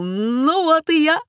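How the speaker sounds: a high, loud cheery shout. A narrator's reading. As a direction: burst onto the stage calling out. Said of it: "крикнул".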